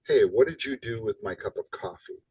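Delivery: "you" leaned on in "what did you do"; stress on you. Shown as a demonstration. Asking a friend where the coffee went, stress on "you". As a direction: accuse the listener by hitting "you". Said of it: "I can put emphasis on different words".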